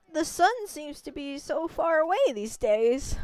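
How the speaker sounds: lightly voiced kindly village grandma; a gentle old lady warning the traveler. Old grandma greeting the wolf and its rider, lightly voiced.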